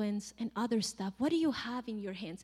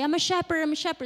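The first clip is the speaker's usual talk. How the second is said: higher, slightly louder proclamation; mock announcing; 5 semitones higher, 4 dB louder, much faster than usual. Moses needlessly telling everyone his job, mock announcing. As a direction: announce yourself to passers-by, hammed-up.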